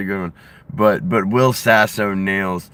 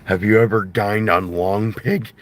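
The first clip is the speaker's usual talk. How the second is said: Jesse Ventura impression. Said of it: "Will Sasso's impression of Jesse Ventura".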